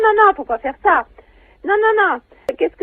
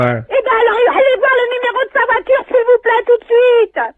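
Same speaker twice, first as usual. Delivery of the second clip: urgent shout. Real, not acted. Victim urging caller to act.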